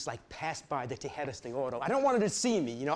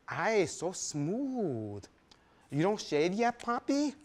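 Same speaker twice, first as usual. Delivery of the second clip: very slow, purring tease; a lightly voiced sultry tease; Esperanza teasing; 3 semitones higher, slower than usual. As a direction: stroke the words out slowly.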